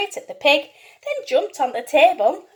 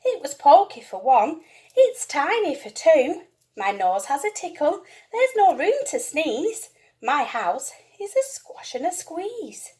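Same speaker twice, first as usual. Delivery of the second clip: put-on distressed old lady. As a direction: wail it out, worried. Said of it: "The little old lady cried".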